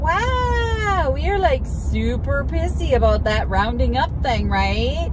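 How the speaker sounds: high, mocking sarcasm at the cashier; sarcastic retort. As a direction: needle her with fake astonishment. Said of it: "And I'm like".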